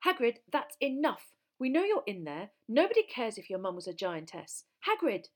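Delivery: high, loud exasperated shouting; urgent, indignant yelling; shouted. A narrator's reading. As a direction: shout through a shut door at someone hiding. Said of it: "Hermione shouted".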